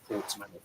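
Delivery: Portsmouth split into Ports and mouth; two separate words. Retold or imitated. Mimicking how the Welsh say it, Portsmouth as two words. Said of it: "say it's two separate words".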